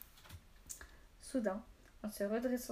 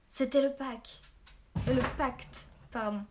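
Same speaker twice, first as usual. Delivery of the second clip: loud, raised narrated shout; yelling; 3 semitones higher, 7 dB louder than usual. A narrator's reading. Barbarian yells about the pact, loud shout. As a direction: yell it out in character. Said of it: "hurla-t-il".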